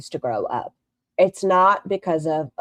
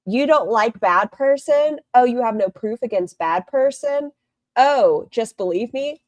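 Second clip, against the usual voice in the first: higher-pitched mocking questions; mocking retold quote; 5 semitones higher than usual. Streamer mimicking the video she played, mockingly. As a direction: put on a higher, incredulous mock voice. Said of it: "where it was like".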